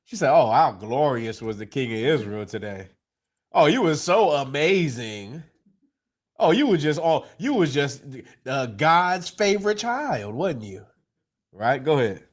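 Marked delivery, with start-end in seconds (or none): 0.3-10.9 mock-admiring, slowed on the praise; sarcastic wife needling the king. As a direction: drip fake praise over him. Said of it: "now she's being sarcastic".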